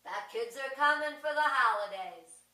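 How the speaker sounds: father gloating to his wife that the plan worked; gleeful reveal. Retold or imitated. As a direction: crow it out like a won scheme. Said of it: "the father said".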